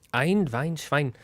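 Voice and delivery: a quick, admittedly bad German accent demo; half-hearted German accent. Shown as a demonstration. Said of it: "I can do a German accent".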